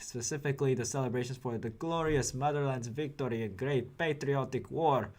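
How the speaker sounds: mock Soviet announcer, Russian accent. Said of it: "Sorry for the terrible Russian accent".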